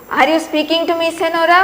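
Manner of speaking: understated acted yell; mild irritated yell. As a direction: challenge her with a touch of irritation. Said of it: "and he yells at".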